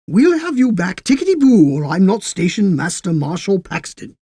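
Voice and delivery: high, loud, genial promise; affable. A narrator's reading. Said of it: "he said affably".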